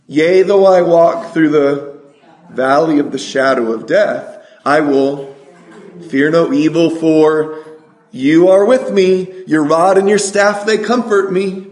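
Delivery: measured recitation in short phrases; psalm recitation. Real, not acted. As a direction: lead a congregation through the verse, pausing between phrases.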